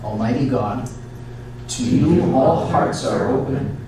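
slow, measured liturgical prayer; solemn prayer. Acted. Priest leading the congregation in prayer, solemn and measured. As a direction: intone it like a priest at the altar.

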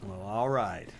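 lightly drawled Texas well all right; a hint of a Texan cowboy; Texas accent. Gamer answering partner in a light mock Texas accent. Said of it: "That's a Texas accent".

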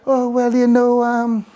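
hesitant, halting mock confession; imitated effeminate man. Preacher mocks men talking on radio programs, imitated effeminate hesitant voice. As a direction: mimic a radio guest faltering through his story. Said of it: "like if you're effeminate".

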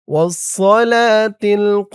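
والصلاة القائمة slow, halted at the end; stopped recitation. Shown as a demonstration. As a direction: pause cleanly after القائمة. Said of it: "এখানে থামবেন". (এখানে থামিয়ে পড়া)

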